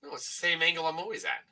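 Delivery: tinny computer speaker audio; sounding like a tin can. Real, not acted. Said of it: "your audio sounds a little off".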